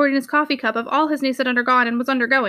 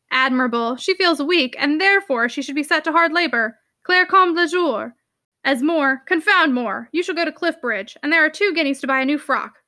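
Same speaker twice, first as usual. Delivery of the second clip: sarcastic, blustering uncle. Acted. Uncle sarcastic then indulgent.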